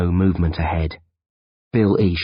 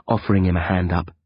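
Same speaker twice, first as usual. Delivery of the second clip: plain reading voice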